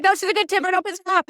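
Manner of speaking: imitating a friend. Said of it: "He's like".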